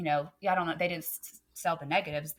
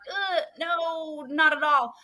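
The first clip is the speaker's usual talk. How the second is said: high, sing-song gentle no; an exaggerated polite refusal; sweetly blunt no; 8 semitones higher, 7 dB louder, much slower than usual. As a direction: let them down nicely but firmly. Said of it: "we try to say it really nice".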